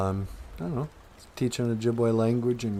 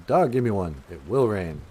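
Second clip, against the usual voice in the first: firm, louder opening on DA; authoritative; 4 dB louder than usual. Shown as a demonstration. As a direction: say it with authority, falling at the end. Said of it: "da sounds like you have more authority".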